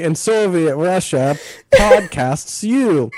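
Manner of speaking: mock Russian, drawn-out punchline; lightly put-on Russian accent, last words stretched. Shown as a demonstration. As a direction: demonstrate a Russian-accented joke. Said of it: "do a Russian accent and say".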